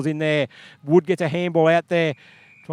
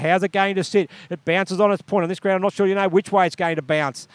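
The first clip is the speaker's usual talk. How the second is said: brisk, slightly raised match call; live play-by-play. Acted. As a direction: keep the ball moving in your voice.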